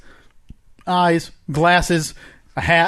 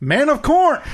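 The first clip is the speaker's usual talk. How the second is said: detective voice; 10 semitones higher than usual. Acted. Playing the corn man character.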